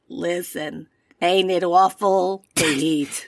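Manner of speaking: slow, put-on Bronx character; Bronx accent. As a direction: stretch it out in a bad Bronx accent. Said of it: "I think you were kind of Bronxy".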